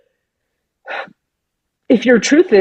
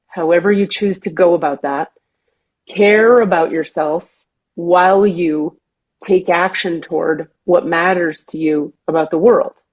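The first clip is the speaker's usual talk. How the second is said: channeled voice; 3 semitones lower than usual. Retold or imitated. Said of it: "it says".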